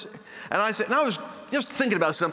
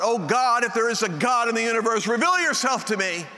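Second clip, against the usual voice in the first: higher-pitched imitated plea to heaven; desperate cry, retold; 4 semitones higher than usual. Miserable cadet begging God to reveal himself, desperate cry. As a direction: reenact crying out to God in desperation. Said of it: "such desperation that I cried out".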